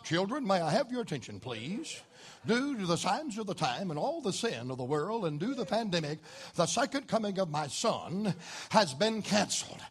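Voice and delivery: mock divine announcement. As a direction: imitate a grave official notice. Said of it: "you'll never hear our Lord say".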